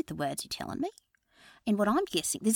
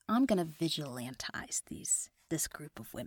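put-on Australian accent; 2 semitones lower than usual. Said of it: "slip into that accent".

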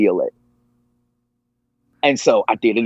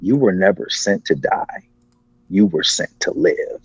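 low-key, deliberate voice of authority, retold; strong voice; 3 semitones lower than usual. Strong voice answers the man's plea, measured and firm. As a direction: state it firmly and unhurried. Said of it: "that same strong voice came back again".

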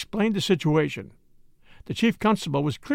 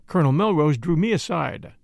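ordinary delivery

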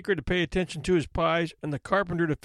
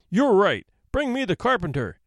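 louder, higher roar from the bench; roaring judge; 4 semitones higher, 3 dB louder than usual. Acted. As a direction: judge roars his order at the court. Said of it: "the judge roared from the bench".

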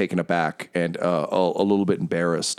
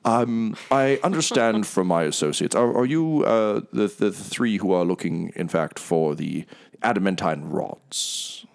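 smooth, grand, apologetic host; oil every word with charm; lightly voiced theatrical merchant; Mahadi, gregarious tiger. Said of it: "he's like, Oh".

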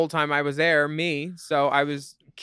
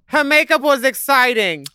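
example sentence; 8 semitones higher, 6 dB louder than usual. Pretend. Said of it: "can you use it in a sentence?".

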